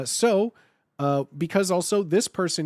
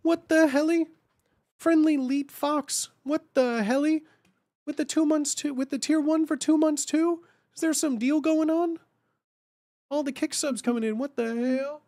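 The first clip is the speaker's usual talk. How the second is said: excited silly voice; 10 semitones higher than usual. Real, not acted. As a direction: squeal about the subs coming in. Reacting to incoming subs.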